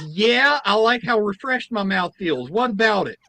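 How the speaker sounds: high, challenging granny voice; defiant old lady. Retold or imitated. Old lady defending her Clorox rinse, high and defiant. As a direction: dare them to object. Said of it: "the lady goes".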